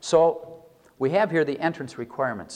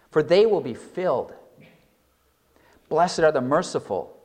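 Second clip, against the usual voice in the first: scripture reading. Acted. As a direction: read each blessing with weight. Reads the Beatitudes aloud.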